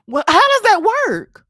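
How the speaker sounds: high, loud, laughing question; laughing disbelief. Real, not acted. Streamer laughing at viewers, asking in disbelief.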